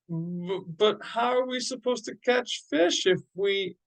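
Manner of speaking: high-pitched, stammered disbelief; baffled stammer. A narrator's reading. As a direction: stumble into a bewildered question and break off. Baffled father breaks off mid-question.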